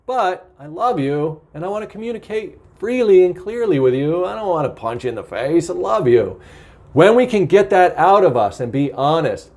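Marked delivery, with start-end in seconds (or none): 0.1-6.4 tender reassurance. Shown as a demonstration. Speaking to the person after venting, tender. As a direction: gently reassure the person you love. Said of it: "like I might say to somebody".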